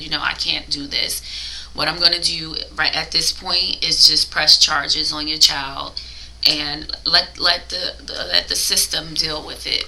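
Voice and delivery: ordinary talk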